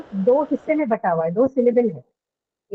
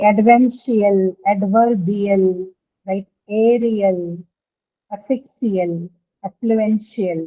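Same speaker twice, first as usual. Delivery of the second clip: slow listing; 3 semitones lower, much slower than usual. Shown as a demonstration. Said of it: "teacher listing example words slowly".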